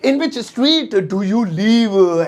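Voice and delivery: stretched, syllable by syllable. Shown as a demonstration. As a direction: drill it for the class. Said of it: "तुम कौन सी गली में रहते हो".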